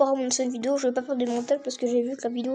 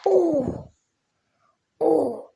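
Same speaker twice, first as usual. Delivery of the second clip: loud high gasp of surprise; loud startled oh; excited oh; 4 semitones higher, 5 dB louder than usual. Real, not acted. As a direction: shout at the rare pull. Another rare pull.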